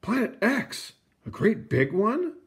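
a tiny planet squeaking in disbelief; little icy world's voice. A narrator's reading. Icy world doubting Percival's giant planet, high and puzzled. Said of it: "thought the little icy world".

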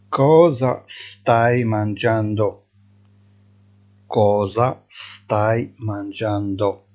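very slow, clear Italian question; drawn out for students to repeat; deliberate dictation pace; slow teaching model. Shown as a demonstration. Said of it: "teacher models slowly".

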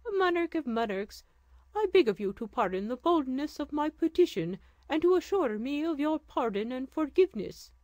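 put-on pleading old woman. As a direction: beg the sultan for mercy. Mother pleads before the throne.

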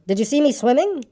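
high, eager little voice; high squeaky showing-off; excited squeak. A narrator's reading. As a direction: squeak it high, begging to be admired. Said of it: "squeaked Roo excitedly".

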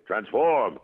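ringing robot-leader command; imitated Transformers order; Optimus toy voice. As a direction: call it like the toy. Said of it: "I heard my voice on the toy".

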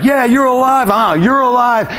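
high, stretched cheering; mock-ecstatic high cry; euphoric friend. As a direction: imitate a blissed-out friend cheering you on. Friend answers his screaming.

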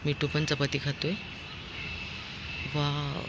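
hushed aside to viewers; quiet commentary. Real, not acted. Vlogger tells viewers about parrots, soft commentary.

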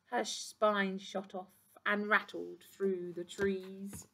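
lively storybook reading; reading to children. A narrator's reading. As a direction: read it like to a class. Reads picture book aloud.

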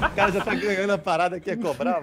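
talking through laughter; words breaking into laughs; laughing. Real, not acted. Laughing at a friend's joke.

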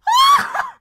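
very high, loud screaming laugh; piercing burst of excited laughter; ecstatic squeal. Real, not acted. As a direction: squeal with overjoyed disbelief. Screams at seeing self credited.

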